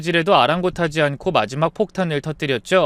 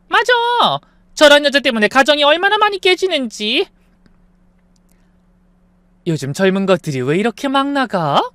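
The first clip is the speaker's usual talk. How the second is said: scolding aunties; 3 semitones higher, 3 dB louder than usual. Acted. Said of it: "손가락질하기".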